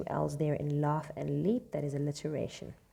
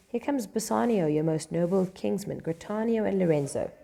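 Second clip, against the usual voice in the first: announcing arrival; 3 semitones higher, 4 dB louder than usual. Acted. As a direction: call out the arrival. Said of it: "they go".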